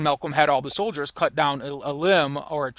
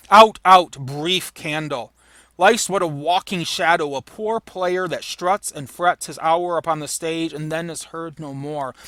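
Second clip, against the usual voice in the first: dramatic soliloquy. Acted. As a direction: cry it out, then let it die away. Reading the soliloquy.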